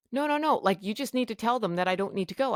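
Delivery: high-pitched, rushed objection; re-enacted panicky pleading; retold frantic protest. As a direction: protest in disbelief, pitch jumping up on the no's.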